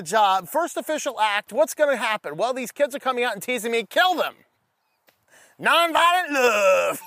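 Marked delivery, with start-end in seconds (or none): 5.6-7.0 slow, loud, higher mocking nonviolent love; sarcastic punchline. Preacher ridiculing the book after the bear story, dry sarcasm. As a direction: drip the irony on the phrase.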